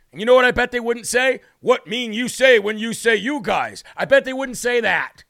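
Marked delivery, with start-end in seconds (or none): 1.6-3.8 lightly mocked Native American accent, slow; stilted imitation Native American accent. Host imagining the tribe's reply to him, mock Native American accent. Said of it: "Native American accent".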